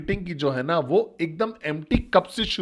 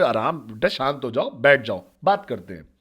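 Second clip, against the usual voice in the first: calm soothing master; 5 semitones lower than usual. Retold or imitated. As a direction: settle the angry boy gently. Calm master soothing shouting student.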